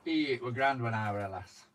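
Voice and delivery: put-on Yorkshire accent. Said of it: "done a bit of Yorkshire".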